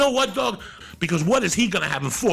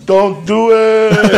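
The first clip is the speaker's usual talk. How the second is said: slow, stretched-out warning yell, louder; 5 semitones higher, 7 dB louder, much slower than usual. Retold or imitated. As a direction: yell it slowly down the line at the guys. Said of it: "I would yell".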